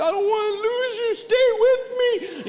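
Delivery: high, loud, very slow hammed-up crying to a bill; mock sobbing plea. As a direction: wail at the hundred like a dying friend. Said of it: "it's like".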